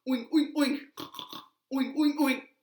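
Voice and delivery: playful snorting oinks; pig oinks. Pretend. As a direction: oink like a pig. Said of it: "And the pig said".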